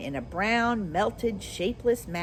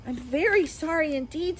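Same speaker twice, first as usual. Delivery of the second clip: frightened apology; 8 semitones higher than usual. Acted. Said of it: "truly frightened".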